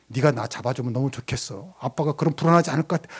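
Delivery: soft, pleading father asking kindly; a hint of a tender plea to his child; gentle request. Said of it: "부드럽게, 부탁조로".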